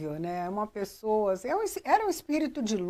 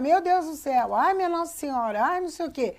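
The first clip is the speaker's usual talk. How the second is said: retold panicked cry; 6 semitones higher, faster than usual. Chico crying out in mock panic on the bumpy flight. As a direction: act out a frightened passenger crying to God. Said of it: "Então ele começa a gritar".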